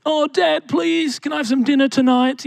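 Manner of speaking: put-on high, pleading little-boy whine; begging child. Son begging his father for dinner, pleading. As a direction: beg Dad for dinner like a small kid. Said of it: "begging for simple things".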